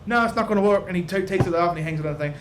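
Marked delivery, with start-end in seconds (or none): 0.1-0.8 nervous little man. Acted. GM voicing nervous Whitnan.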